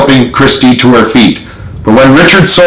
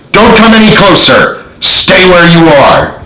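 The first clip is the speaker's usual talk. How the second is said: warning shout; 7 semitones higher than usual. A narrator's reading. Gun pointed at sergeants.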